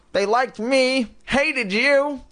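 high, slow puppet voice; squeaky dummy taunt; high-pitched dummy voice. Acted. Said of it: "in Lindy's high-pitched voice".

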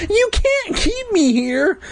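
high panicked scream. A narrator's reading. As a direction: scream to be let out. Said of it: "I screamed".

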